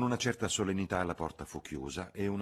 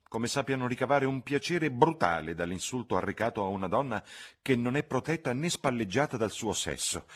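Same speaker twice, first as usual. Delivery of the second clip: higher, louder fretful warning; worried lecture, louder; anxious chaperone; 6 semitones higher, 4 dB louder than usual. A narrator's reading. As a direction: protective cousin pressing hard. Charlotte warns Lucy about men.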